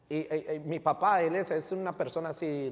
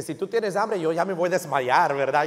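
joking exaggeration; 7 dB louder than usual. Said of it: "Y dice".

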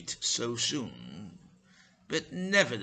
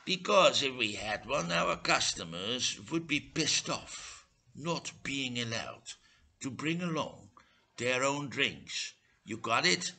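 impatient; 3 semitones higher than usual. Acted. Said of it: "he explained impatiently".

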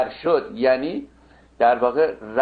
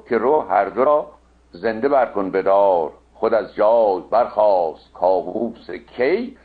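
measured, metrical Shahnameh reading; epic verse recitation; slower than usual. Acted. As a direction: recite in steady metre, stretching the rhymes.

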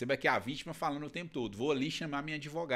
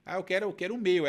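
retold complaint; 2 semitones higher, 5 dB louder than usual. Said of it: "ela falou, né?".

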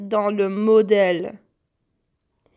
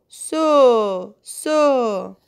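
so said twice, short and stressed; isolated syllable; 4 dB louder than usual. Shown as a demonstration. Teacher isolating the shared syllable so for pupils. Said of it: "la syllabe so".

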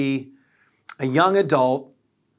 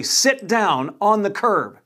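slow, raised, higher order; firm command; 5 semitones higher, slower than usual. Retold or imitated. To the drunk young man, a slow firm order. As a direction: spell it out so he obeys.

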